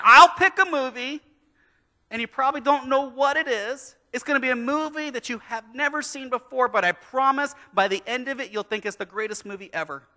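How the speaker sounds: dad hyping up the mystery pick; big bold promise. Retold or imitated. Dad insists to doubtful kids.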